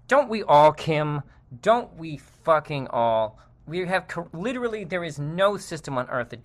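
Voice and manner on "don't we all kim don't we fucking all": angry retort. Real, not acted. Angry retort to quoted tweet.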